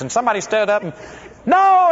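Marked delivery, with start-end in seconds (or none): 1.5-1.9 sharp higher, louder shouted no; retold shout. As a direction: cut in with a loud objection. Church member objecting in a fight.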